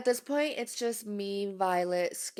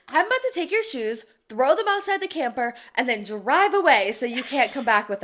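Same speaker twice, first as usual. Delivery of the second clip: mock threat; 4 semitones higher, 5 dB louder than usual. Jasper threatening Carl.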